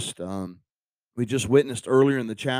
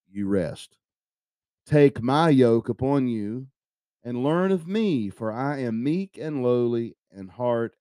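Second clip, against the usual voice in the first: slow, deliberate Bible reading; measured scripture reading with drawn-out key words. Acted. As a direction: read the verse out slowly, phrase by phrase. Reads the Bible invitation aloud.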